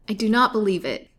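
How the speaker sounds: proud. A narrator's reading. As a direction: lift your chin and refuse it outright. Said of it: "answered Lily proudly".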